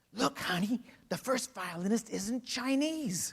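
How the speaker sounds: loud, high, slow stage whisper. Retelling what a husband in the front row told his wife: imitating a loud stage whisper. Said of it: "in an incredibly loud stage whisper".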